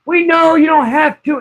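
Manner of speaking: high, slow, sing-song talking down; mock condescending nurse. Hospital staff humoring an upset patient, high mock sing-song. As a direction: coo at her like a child, high and slow. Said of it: "staff voiced in retold story".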